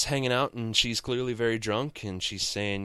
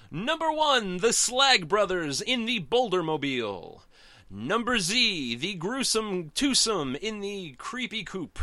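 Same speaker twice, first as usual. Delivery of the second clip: Wacky Races announcer; 9 semitones higher than usual. Shown as a demonstration. Fan reviewing the comic does the cartoon's race announcer voice. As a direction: call the racers to the start line like a cartoon announcer. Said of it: "do my Wacky Races voice".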